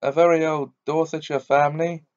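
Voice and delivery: high, loud whining lament; wailing. Acted. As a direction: wail like a self-pitying old man. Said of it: "It was wailing on".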